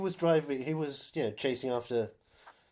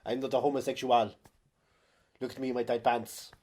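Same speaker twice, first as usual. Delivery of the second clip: mock bodybuilder actor; 4 dB louder than usual. Voicing the actor.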